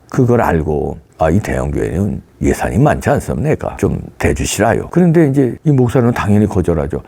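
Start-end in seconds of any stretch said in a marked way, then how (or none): 1.2-4.9 put-on a lower, coaxing North Korean agent's accent; mild North Korean dialect, pressing politely. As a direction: slip into a North Korean accent to ask for money. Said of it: "사투리가 잘 안 되네".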